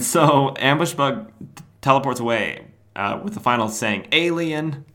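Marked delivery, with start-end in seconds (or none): 4.1-4.8 parting jab. Acted. Parting shot while teleporting.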